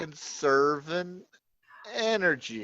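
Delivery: very slow mock Georgia drawl; Georgia accent impression. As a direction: drag each word out like a caricature Georgian. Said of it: "your impression of people from Georgia".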